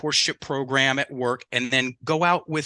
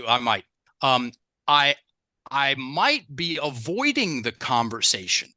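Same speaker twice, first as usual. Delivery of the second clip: soft talk; slower than usual. Shown as a demonstration. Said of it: "deliver some soft talk sentences".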